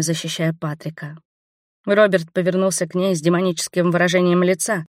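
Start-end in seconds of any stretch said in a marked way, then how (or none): none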